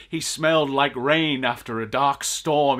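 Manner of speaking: slow, mockingly lyrical; mock poetic. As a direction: drawl it like overblown poetry. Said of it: "they're saying something like".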